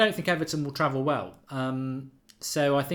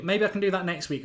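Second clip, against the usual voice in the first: normal talking voice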